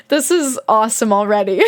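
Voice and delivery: talking through leftover laughter; laughing delight. Real, not acted. Reader delighted by the book already, laughing as they talk. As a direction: say it as the giggles subside.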